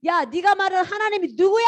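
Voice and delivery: hammed-up royal refusal, high and drawn-out; angry Pharaoh. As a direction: refuse indignantly, stretching the words. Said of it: "바로 왕이 화가 나가지고".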